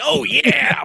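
high, airy imitation of Dave Bautista; mock Bautista voice. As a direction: play him casual and smug. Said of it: "He was like".

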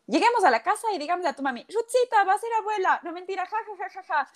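playful announcement. Retold or imitated. Husband's playful announcement, retold.

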